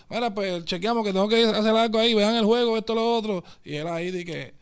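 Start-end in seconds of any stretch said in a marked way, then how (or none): 0.1-3.4 louder, higher, pushy producer orders; louder mock boss giving directions; retold loud instruction. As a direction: bark orders across the studio, retold. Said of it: "le dijo".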